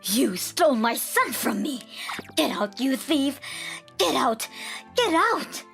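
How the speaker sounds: high-pitched mother-in-law tirade; furious yelling. A narrator's reading. Mother-in-law driving out her son's wife, yelling. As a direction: yell in rising fury to a high final cry. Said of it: "She was yelling as she opened".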